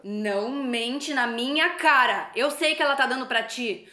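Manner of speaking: slow, firm angry warning. Acted. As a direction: drag every word out at him. Wife confronts cheating husband. (esposa furiosa, devagar)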